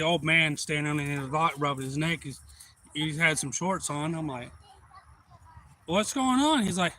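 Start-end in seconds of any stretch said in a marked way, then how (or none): 5.9-6.6 much higher-pitched hello; acted greeting. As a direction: imitate calling over to a neighbor. Greets old neighbor on dock.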